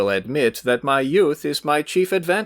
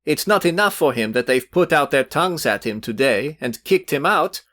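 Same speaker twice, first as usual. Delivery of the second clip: hot indignation; 7 semitones higher than usual. A narrator's reading. Youth berates his rival before Velchaninov, rising heated indignation. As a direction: build a young man's heated tirade. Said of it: "turning hotly to Velchaninov".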